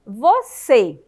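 "Você" loud, in two beats: vo, cê; syllable by syllable. Shown as a demonstration. Teacher introducing a two-syllable word to children, loud and split. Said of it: "aqui nós só temos duas".

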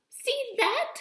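very high, loud gotcha; triumphant. Acted. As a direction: crow over catching her out. Pippi triumphant at teacher.

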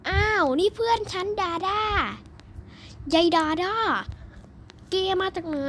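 playful surprise at Dada; excited surprise. Real, not acted. Excited greeting of friend.

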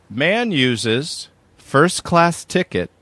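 measured, announced headline; news headline read. Acted. Reads out a headline.

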